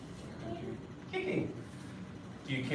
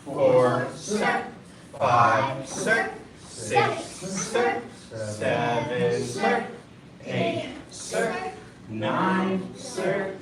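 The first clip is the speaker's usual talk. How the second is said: shouted drill count; 4 dB louder, much slower than usual. Real, not acted.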